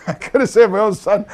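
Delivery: mock-innocent sarcasm with a chuckle; sarcastic. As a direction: toss it back as an amused, mocking question. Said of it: "because he's being sarcastic".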